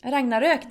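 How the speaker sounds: Ragnarök with rolled R and ö ending; Swedish pronunciation. Shown as a demonstration. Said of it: "That's how you say it".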